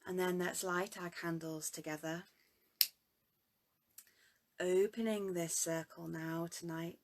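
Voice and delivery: unhurried meditation guide with long pauses; guided meditation. Real, not acted. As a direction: gently lead them into presence, letting each phrase settle.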